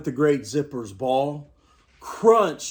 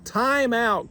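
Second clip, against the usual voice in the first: calling time out; 9 semitones higher than usual. A narrator's reading. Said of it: "called Kevin".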